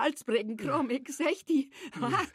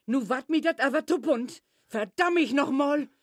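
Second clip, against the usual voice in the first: louder, fed up; exasperated scolding; 4 dB louder than usual. Acted. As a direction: snap at him, losing patience. Mother loses patience, swearing.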